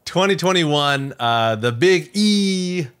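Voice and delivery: hammed-up podcast plug; promo announcer. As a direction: sell the next episode like a radio promo. Announcement continues.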